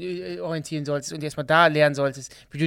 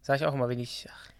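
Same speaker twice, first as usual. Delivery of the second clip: geflüstert; 2 semitones lower, 6 dB quieter than usual. Real, not acted. Flapsiger Kommentar nebenbei.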